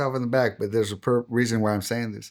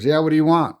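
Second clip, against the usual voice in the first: louder, higher, impatient retort; brusque agent; 4 semitones higher, 6 dB louder than usual. Retold or imitated. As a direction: imitate an agent bothered by an inmate. Agent brusquely answers an inmate.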